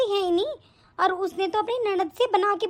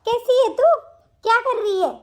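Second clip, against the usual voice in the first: a touch higher and louder, bright mother's hello; lively greeting; 4 semitones higher, 4 dB louder than usual. Acted. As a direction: greet the daughter eagerly, a little raised. Mother calls daughter on phone.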